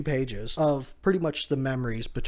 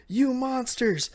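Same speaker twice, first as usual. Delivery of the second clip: high, slow accusing cry; mock outrage; 11 semitones higher, slower than usual. Momo barreling towards the pirates, high mock-outraged cry. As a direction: stretch it out in a high, hammed-up voice. Momo charges at them, acted.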